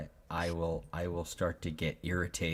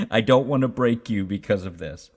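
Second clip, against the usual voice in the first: parent voice; 3 semitones higher, 9 dB louder than usual. Retold or imitated. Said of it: "the parenting brain kicks in".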